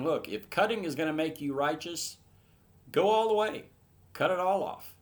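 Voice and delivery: building from firm to a loud, high "cut it all off"; Paul erupting, voice climbing hard on go all the way; emphatic outburst. Retold or imitated. Paul telling legalists to go all the way, rising to a loud cry. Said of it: "he's being very emphatic".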